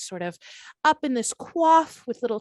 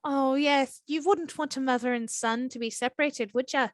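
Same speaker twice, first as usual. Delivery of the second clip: put-on Irish accent. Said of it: "sounding like Aisling Bea".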